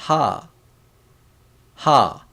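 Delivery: ha, opened with an airy H; H sound demo. Shown as a demonstration. Teacher showing the H sound, demonstrating "ha" distinctly. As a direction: say "ha" as a separate model syllable, falling. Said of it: "This one, H sound".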